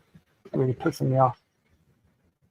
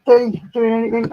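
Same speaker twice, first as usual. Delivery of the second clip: chirpy question; 8 semitones higher, 5 dB louder than usual. Real, not acted.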